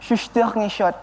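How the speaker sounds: French-sounding Indonesian words; playful French accent. Shown as a demonstration. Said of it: "kalau bahasa Perancisnya".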